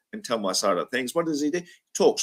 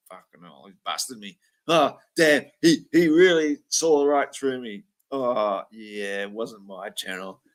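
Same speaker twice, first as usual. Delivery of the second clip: imagined inner voice; 4 semitones lower than usual. Retold or imitated. Host voicing Craig's imagined thoughts, low muttered confession. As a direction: voice his guilty thoughts under the breath. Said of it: "He's going".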